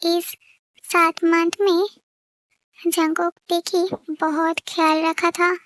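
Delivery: slow, measured storyteller voice; unhurried fan-story narration. A narrator's reading. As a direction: close the chapter slowly, like a narrator.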